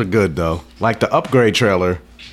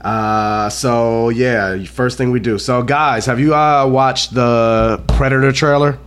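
rough, croaky voice from a cold; hoarse sick voice; much slower than usual. Real, not acted. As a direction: talk through a sore throat. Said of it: "my nasty, nasty voice".

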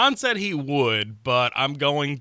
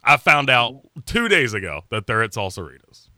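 a touch of anger. Real, not acted. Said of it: "I hear some anger in that voice".

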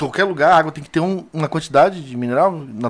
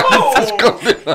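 laughing; 6 semitones higher than usual. Real, not acted. Laughing fit in studio.

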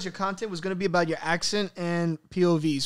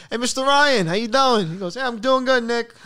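quoting a greeting; 5 semitones higher, 6 dB louder than usual. Retold or imitated. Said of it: "I was like".

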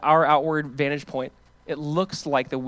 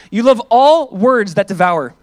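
slow accusing; 5 semitones higher, 11 dB louder, slower than usual. Acted. Reading psalm's accusation.

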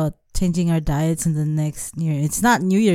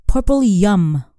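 slow, louder Asian accent, "yam" as "yum"; 2 semitones higher, 6 dB louder, slower than usual. Real, not acted. Wife repeating for puzzled husband, slow Asian accent. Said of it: "you were going full Asian".

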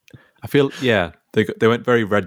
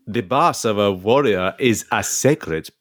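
Viking voice. Acted. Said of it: "I'll be Ivor".

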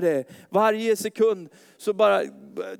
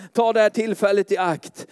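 ordinary talk, nothing marked

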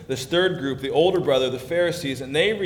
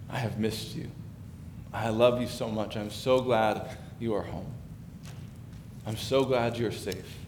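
tender father; 3 semitones lower, 5 dB quieter than usual. Acted. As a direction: speak like a father holding his son again. Father embracing returning son.

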